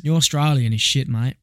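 mock Australian, broad vowel on mate; teasing in a put-on Australian accent; lightly done Australian accent. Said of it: "Just 'cause you say "shit, mate" in Australian".

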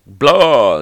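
drawn-out mock "blah" of a vampire; a slow, silly ghoul noise; mock monster noise. Mimes vampire decoration rising from ground.

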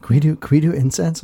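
put-on high, eager kid begging; pleading like an excited boy. Kid begging to serve with incense.

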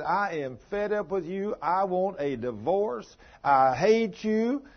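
rising, hammed-up fury, slowing on I hate you; angry wife. Wife to husband, demanding a divorce: retold angry outburst. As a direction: spit the words out slowly at him like a scorned wife. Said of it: "she got so angry at him".

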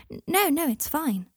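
put-on a child quickly insisting all is well; hasty reassurance. A narrator's reading. Boy hurries to reassure father.

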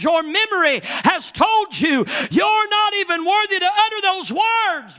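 preacher's driving cadence; full-force preaching. Acted. Preacher to worshippers, full-force preaching. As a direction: press it home to the house.

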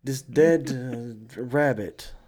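halting fake Russian accent; clumsy mock Russian; horrible Russian accent. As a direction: search for words in a bad Russian accent. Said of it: "what is this horrible Russian accent".

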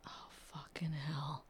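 slow, soft whispered swear; whispered curse. Real, not acted. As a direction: breathe the curse under the noise. Painters' noise interrupts recording.

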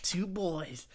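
hushed, low trailer narrator; husky, whispery film-trailer read; odd trailer voice. Pretend. Host reading the intro as co-host heckles, odd trailer voice. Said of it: "why do you sound like that".

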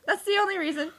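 quick, laughing and high. Real, not acted. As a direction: laugh the words out fast. Laughing reply.

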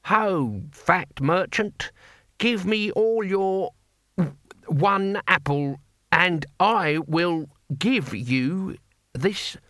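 slow, stilted recited lines; stiffly rehearsed. A narrator's reading. Cohen addressing the apple merchant, slow rehearsed recital. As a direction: recite it like a memorized script. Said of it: "as if he were rehearsing a script".

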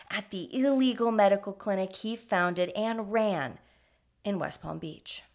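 story narration. A narrator's reading. Narrates the scripted intro.

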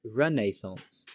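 RENAISSANCE as "run-NAY-sonce", drawn out; British renaissance. Shown as a demonstration. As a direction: say "renaissance" slowly with 'ay' in the middle. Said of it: "With the A as in pain".

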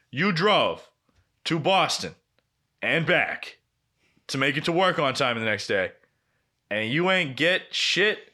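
emphatic chunks with pauses, slowing at the end; incredulous recap. Retold or imitated. Buddy hearing about the fruitless drive, incredulous. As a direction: imitate a buddy spelling out the absurdity.

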